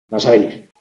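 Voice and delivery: vas a venir pitched low throughout, no rise; low intonation. Shown as a demonstration. Teacher contrasting sentence types, low tune on vas a venir. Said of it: "Eso nos permite distinguir unas frases de otras".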